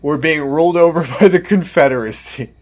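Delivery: loud, hammed-up mock alarm in a put-on voice; mock panic. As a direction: parody her shock, overdone and laughing. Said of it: "and you thought".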